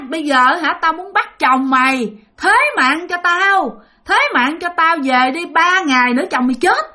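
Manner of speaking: imitated ghost demanding a life; threatening spirit. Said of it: "ba của bạn mới nói rằng".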